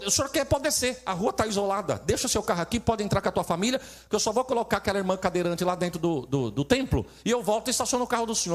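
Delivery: high, helpful usher voice; lightly voiced servile usher; polite usher. Polite usher offering help.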